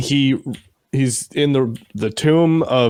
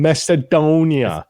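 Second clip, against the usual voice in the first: drawn-out; 3 semitones higher, slower than usual. Retold or imitated. Drawn-out imitation of character's line.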